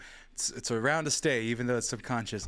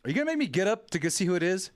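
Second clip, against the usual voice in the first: loud whining call; 6 semitones higher, 4 dB louder than usual. Real, not acted. Complaining aloud at door.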